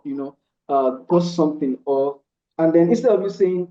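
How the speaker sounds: normal talking voice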